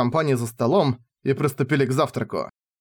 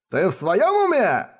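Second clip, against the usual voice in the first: higher, slow roar of outrage; roared retort; 6 semitones higher, slower than usual. Acted. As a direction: bellow it back at her, slowly. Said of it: "взревел Райнер одновременно с ней".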